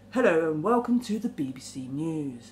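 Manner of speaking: lightly imitated news greeting, ending downward; a hint of a newsreader, dropping at the end; BBC newsreader. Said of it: "they always go down".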